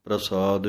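ਪ੍ਰਸਾਦ with the r joined under the p, said as one cluster pra; careful pronunciation. Shown as a demonstration. Teacher models ਪ੍ਰਸਾਦ for students, pr cluster clearly joined. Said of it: "ਪੱਪੇ ਦੇ ਪੈਰ ਵਿੱਚ ਰਾਰੀ ਦੀ ਆਵਾਜ਼ ਦੇਣੀ ਹੈ".

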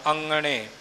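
ਅੰਗਣੇ said with the nasal ng cluster, not the plain form; correct pronunciation. Shown as a demonstration. Teacher shows the pupil how to say the word, careful pronunciation. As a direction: say ਅੰਗਣੇ the correct way, ng sound clear. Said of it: "ਇੱਥੇ ਅੰਗਣੇ ਨਹੀਂ ਬੋਲਣਾ".

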